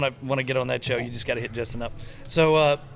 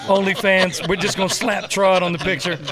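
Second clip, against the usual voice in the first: laughing; 3 semitones higher than usual. Real, not acted. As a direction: laugh as you say it. Laughing joke.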